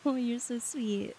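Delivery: slow, settled appreciation; gently touched, drawn out; tender thanks. Real, not acted. Repeats thanks in a lower voice.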